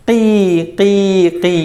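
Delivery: teacher's demonstration of chick cheeping; imitated chick cry. Shown as a demonstration. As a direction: mimic a crying baby bird. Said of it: "എങ്ങനെയാണ് ഫർഹിൻ്റെ south".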